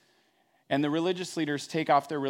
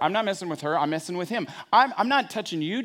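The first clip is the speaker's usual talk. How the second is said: put-on childish excuse; 4 semitones higher than usual.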